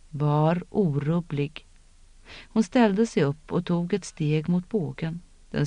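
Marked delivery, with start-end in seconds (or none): 0.1-1.7 långsam, kuslig befallning, långt bort; slow otherworldly command. A narrator's reading. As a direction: utdraget och högtidligt, ekande. Ritual voice commands her. (en främmande röst befaller långsamt)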